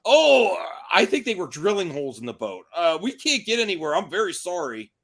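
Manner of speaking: high, mock apologetic castaway; lightly voiced sheepish castaway; castaway excuse. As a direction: fake a sorry excuse. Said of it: "and you got".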